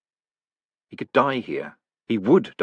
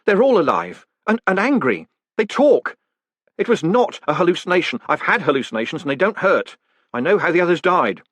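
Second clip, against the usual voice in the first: higher, louder frantic pleading; terrified, trying to make him believe; panicked; 8 semitones higher, 4 dB louder than usual. A narrator's reading. Moist desperately telling the golem the letters talk, panicked voice.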